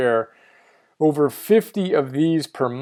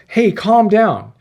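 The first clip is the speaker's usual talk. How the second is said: mock advice; 6 semitones higher, 3 dB louder, slower than usual. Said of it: "most people tell us".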